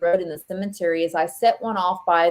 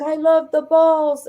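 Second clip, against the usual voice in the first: 1 gleeful; 9 semitones higher, 6 dB louder, slower than usual. Retold or imitated. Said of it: "It's like".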